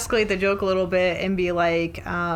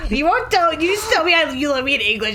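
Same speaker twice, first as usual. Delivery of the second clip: mock petty whine; 4 semitones higher, 4 dB louder than usual. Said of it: "She's like".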